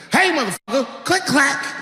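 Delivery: high yelled warning at the intruder; mock threatening shout. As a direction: bellow it like a hammed-up action hero. Yelling at intruder in story.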